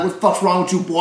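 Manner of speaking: hammed-up Southern "boy"; Southern accent. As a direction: imitate a confrontational Southern ballplayer. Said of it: "me trying to do a Southern accent".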